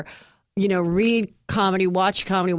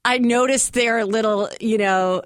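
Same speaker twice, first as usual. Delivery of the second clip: Chelsea Handler impression; 2 semitones higher than usual. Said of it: "can literally hear Chelsea in your voice".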